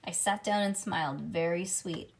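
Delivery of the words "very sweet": usual speaking voice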